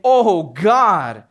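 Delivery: loud pleading cry to God; a desperate cry from the gut. Acted. Daniel crying out to God, loud desperate plea. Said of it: "He's crying out and saying".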